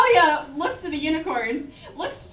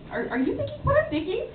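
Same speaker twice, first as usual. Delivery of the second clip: higher, hesitant character voice; conspiring character; 10 semitones higher, 4 dB quieter than usual. Acted. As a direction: ask it high, as a tentative co-conspirator. Tamaki eyes partner conspiratorially.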